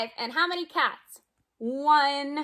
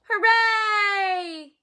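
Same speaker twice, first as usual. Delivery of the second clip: high, louder hooray cheer; cheerful yell; 6 semitones higher, 4 dB louder than usual. Acted. Ducks cheering for Pete, high and loud. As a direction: cheer it out for the kids. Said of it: "all yelled".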